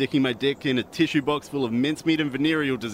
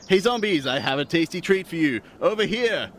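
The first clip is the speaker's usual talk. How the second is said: calling out; 7 semitones higher than usual. Acted. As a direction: shout across to the zombies. Calling out to zombies.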